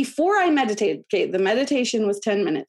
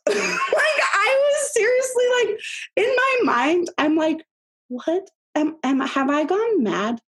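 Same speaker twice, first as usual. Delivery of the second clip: laughing disbelief; 9 semitones higher than usual. Real, not acted.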